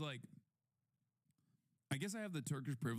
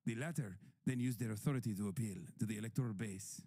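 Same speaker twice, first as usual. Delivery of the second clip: put-on Greek accent. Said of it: "Why are you Dracula now?".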